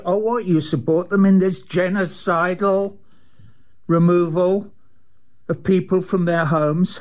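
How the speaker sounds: pitched high, outraged questioning; indignant rant. Real, not acted. Addressing Joe Biden, indignant high rant.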